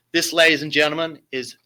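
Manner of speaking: grand showman intro, ending in a whisper; dramatic announcement. Acted. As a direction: announce it like a ringmaster, then hush. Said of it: "I have to put my best Shakespearean voice".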